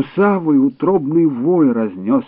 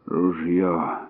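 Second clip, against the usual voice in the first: out of breath, gasping; breathless gasp; 5 semitones lower, 5 dB quieter than usual. A narrator's reading. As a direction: gasp out the word, winded. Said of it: "выдохнул Дюшен".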